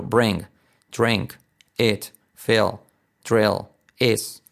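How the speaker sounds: "bring", "drink" as 'breng', 'drenk'; i said as Spanish e in "fill" and "drill"; word list with e vowels, "is" as 'es'; short i as E. Shown as a demonstration. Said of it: "hacerlo como una E".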